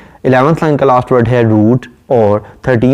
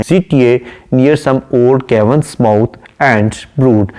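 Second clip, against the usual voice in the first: slow, measured reading of a poem line; poem recitation; much slower than usual. Acted. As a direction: recite it slowly and deliberately. (धीमी, ठहरी हुई कविता-पाठ की आवाज़)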